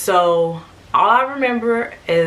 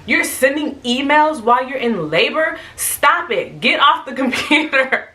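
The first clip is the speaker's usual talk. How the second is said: higher, incredulous mock scolding, ending in a laugh; retold scolding; 6 semitones higher than usual. Coworkers to woman working in labor, mock scolding. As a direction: playfully order someone to stop.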